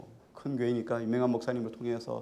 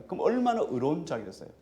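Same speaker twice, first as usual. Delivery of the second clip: ordinary talk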